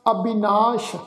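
ਅਬਿਨਾਸ਼ ending in sh; abinash with sh. Shown as a demonstration. Teacher correcting ਅਬਿਨਾਸ਼. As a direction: end ਅਬਿਨਾਸ਼ with a clear sh. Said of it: "ਉਚਾਰਨ ਹੋਏਗਾ ਅਬਿਨਾਸ਼".

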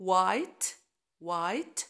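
white with no H; silent H. Shown as a demonstration. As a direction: drop the H in White. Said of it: "ال H silent".

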